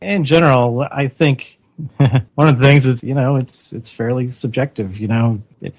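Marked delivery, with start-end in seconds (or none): 1.8-2.3 nervous laugh. Real, not acted. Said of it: "That was a nervous laugh there".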